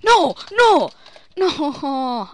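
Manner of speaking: high, loud desperate shout. Real, not acted. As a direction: yell in panic. About to be killed.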